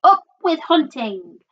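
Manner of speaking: high, rousing war cry; shouting. A narrator's reading. Tyrannosaur family chanting for the hunt, shouting. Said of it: "And they shouted".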